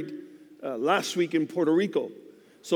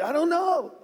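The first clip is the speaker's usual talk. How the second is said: tearful voice; 11 semitones higher than usual. Retold or imitated. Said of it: "I said".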